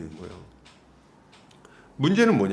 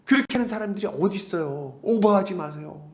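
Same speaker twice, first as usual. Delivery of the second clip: dismissive scoffing; 2 semitones higher than usual. Retold or imitated. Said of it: "옆에서 막 웃는 거예요".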